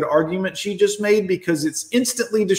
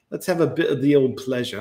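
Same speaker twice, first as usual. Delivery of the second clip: lower-pitched mock British accent drifting Australian; 3 semitones lower than usual. Mocking hedonism for viewers, in a mock British accent. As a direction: put on a jokey British accent that slips Australian. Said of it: "my British accent keeps going Australian".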